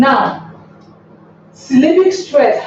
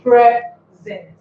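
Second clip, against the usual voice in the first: "present" in two parts, pause before "sent"; split into syllables; 4 dB louder than usual. Shown as a demonstration. Teacher showing the two syllables of a noun, "present" split in two. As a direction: break "present" after a strong "pre". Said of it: "it has two syllables".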